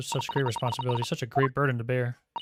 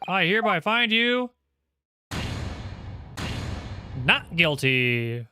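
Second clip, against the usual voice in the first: slightly higher, formal judge reading the verdict; lightly voiced judge; 4 semitones higher, slower than usual. The judge announcing the final verdict to the defendant, formal. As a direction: pronounce the verdict with a touch of ceremony.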